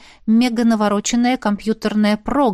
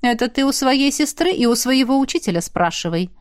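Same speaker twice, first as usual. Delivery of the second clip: grumbled; 3 semitones higher than usual. Acted. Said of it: "проворчали из динамиков".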